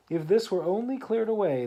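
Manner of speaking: walrus voice. Acted. Walrus voiced in read poem.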